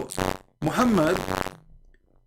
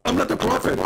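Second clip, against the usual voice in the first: whiny outburst. Acted. Prophet outburst.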